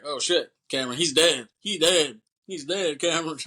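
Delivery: mock panic over a body; alarmed mock cry. One of the guys telling Cameron he's dead, mock alarm.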